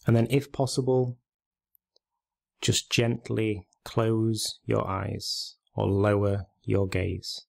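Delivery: measured meditation guide, long pauses between phrases; guided meditation. Real, not acted. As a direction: gently guide listeners into stillness, leaving space after each instruction.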